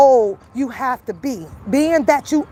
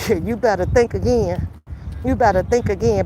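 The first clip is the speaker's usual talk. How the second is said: laughing threat; 4 semitones lower than usual. Real, not acted. Mocking warning with laugh.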